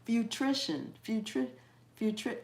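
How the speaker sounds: "Futrition" garbled, then cut short as "futri-"; stumbling word. Real, not acted. Host failing at her stumbling word, faltering. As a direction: keep restarting "futri-" and never finish it. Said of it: "one of my stumbling words".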